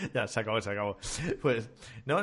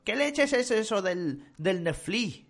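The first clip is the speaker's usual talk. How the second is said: client; 9 semitones higher, much slower than usual. Retold or imitated. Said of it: "me ha dicho".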